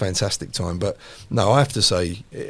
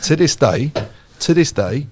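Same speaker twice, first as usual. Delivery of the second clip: excited emphasis; 6 semitones higher, 8 dB louder than usual. Real, not acted. Climax of story.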